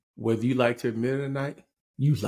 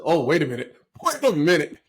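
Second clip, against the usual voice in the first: retold surprise, growing higher and louder; mock double take; 5 semitones higher, 4 dB louder than usual. Teller replays his reaction to her request, mock surprise.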